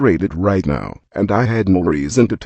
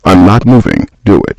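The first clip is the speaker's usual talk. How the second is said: loud, daring yell; louder defiant taunt; defiant shout; 8 dB louder than usual. Acted. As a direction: shout the dare right at her. Daring her to shoot him.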